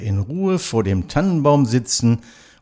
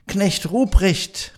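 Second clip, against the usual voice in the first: put-on high, slow call of a child's voice; bright calling voice; 9 semitones higher, slower than usual. Christ Child calling Knecht Ruprecht in the dark forest, high bright call. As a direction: call out brightly, stretching the name. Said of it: "rief's mich mit heller Stimme an".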